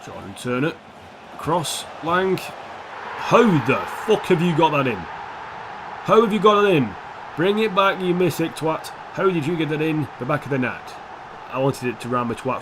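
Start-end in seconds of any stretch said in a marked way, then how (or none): 2.4-8.9 outraged yell. Real, not acted. Shouting at the FIFA goal. 9.1-10.9 "net" said "nat" to rhyme with twat. Shown as a demonstration. Rhyming "net" with twat as "nat". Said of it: "so I said nat instead of net".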